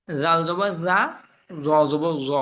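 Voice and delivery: "জা" and "জ" with soft Arabic consonants; soft letters. Shown as a demonstration. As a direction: soften the onset of both "জা" and "জ". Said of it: "দোনোটাই নরম হবে". (নরম করে "জা" ও "জ" উচ্চারণ)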